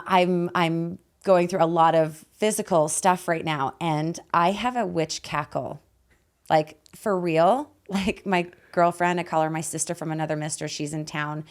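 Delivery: hoarse, raspy voice from a lost voice. Real, not acted. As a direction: talk through a raspy, worn-out throat. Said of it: "that's probably also why I have a raspy voice".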